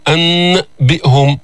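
أنبئهم slowly with a long n before b; أنبئهم as drawn-out ann, bi'hum; laboured clear n. Shown as a demonstration. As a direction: hold the n, then detach the rest of أنبئهم. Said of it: "هذا عسير".

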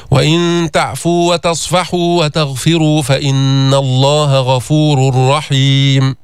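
slow chanted tajweed recitation; measured Quran recitation. Shown as a demonstration. Teacher recites the verse for students in chanted style. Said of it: "لو كنت عم تقرأ الحدر، فيك تقرأ بسرعة".

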